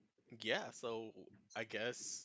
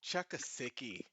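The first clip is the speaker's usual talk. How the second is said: mild Australian slang; 2 semitones higher than usual. Acted. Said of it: "he goes".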